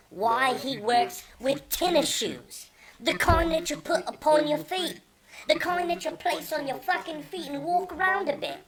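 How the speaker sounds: real incredulous outrage; exasperated rant. Real, not acted. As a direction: vent about the absurd question. Ranting about the tennis shoes question.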